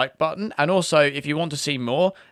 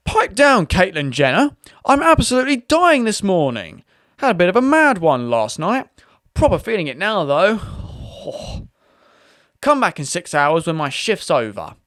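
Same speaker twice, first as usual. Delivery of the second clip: much higher, loud brash rant; brash hungover agent; 4 semitones higher, 4 dB louder than usual. Acted. Agent shouts at the tall customer to pipe down, brash and loud. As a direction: bellow it like a rowdy hungover worker.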